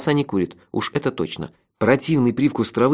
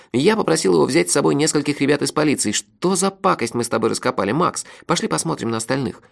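slightly higher friend's voice; lightly voiced sidekick, troubled; 4 semitones higher than usual. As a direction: report in a lightly raised character voice. Narrator voices the friend Melifaro. (голос напарника, чуть повыше)

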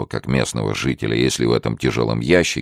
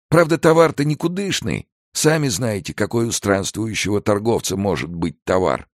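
put-on effusive, high-pitched old man; grateful old trader; 9 semitones higher than usual. Old trader thanks guards minding his goods, grateful. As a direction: thank them profusely, voice pitched well up. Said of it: "с благодарностью добавил".

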